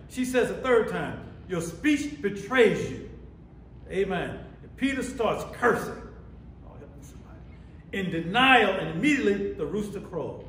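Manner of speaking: preacher voicing each side of the exchange; preaching a Bible story. Real, not acted. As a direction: tell it to the congregation with force.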